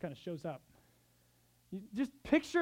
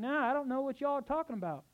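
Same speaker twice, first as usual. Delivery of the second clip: put-on Southern accent; 5 semitones higher than usual. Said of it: "like a southerner showing up in the Northeast".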